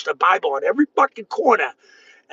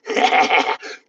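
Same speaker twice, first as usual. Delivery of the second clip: laugh. Real, not acted. Laughs amid his rant.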